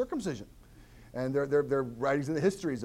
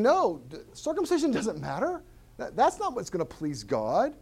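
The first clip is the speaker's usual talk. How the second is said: voicing Paul; 7 semitones higher than usual. Pastor voicing Paul to the church, insistent. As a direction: plead it like Paul would. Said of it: "But Paul's saying".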